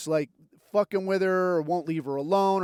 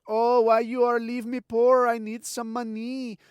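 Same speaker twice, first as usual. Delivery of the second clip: higher, whiny mock Southeast Asian accent; 5 semitones higher than usual. Wife begs deployed husband for money, mock Southeast Asian accent. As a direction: imitate pleading in a caricatured Southeast Asian accent. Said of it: "They're probably gonna hit you up and like".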